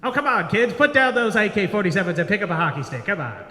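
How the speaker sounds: lightly voiced exasperated youth coach; hockey coach. Coach to kids in Sudan teaching ice hockey, pleading. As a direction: urge the kids along like a coach.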